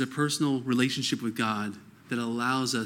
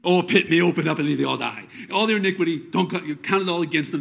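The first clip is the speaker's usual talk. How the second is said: louder, higher mock outcry for vengeance; raw cry to God; 3 semitones higher, 5 dB louder than usual. Preacher voicing David's psalm against his enemies, a loud raw outcry. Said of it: "He, he, he cries out and goes".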